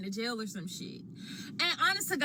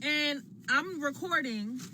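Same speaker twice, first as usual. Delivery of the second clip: talking while chewing; words round a bite of food; mouth full; 3 semitones higher, slower than usual. Real, not acted. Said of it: "I don't know how people do this, eat and talk".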